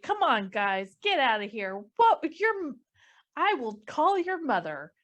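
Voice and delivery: exasperated scolding with a touch of laughter; chastisement. Acted. Nick threatens to call the crowd's mothers, chastisement. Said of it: "I love that chastisement style".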